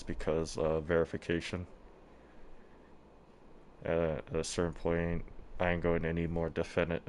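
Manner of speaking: speaking through a face mask; muffled voice behind a mask. Real, not acted. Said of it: "If I also sound somewhat muffled, I'm wearing a mask".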